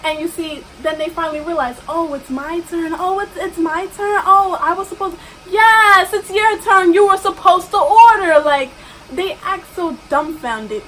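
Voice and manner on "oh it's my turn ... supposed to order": mocking customer.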